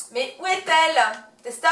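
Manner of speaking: mock-search calling across the room. Vlogger calling for her dog tester, loud playful call.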